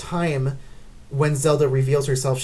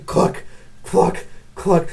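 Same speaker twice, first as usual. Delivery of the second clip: clock ticking sound; slower than usual. Retold or imitated. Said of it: "it's constantly going".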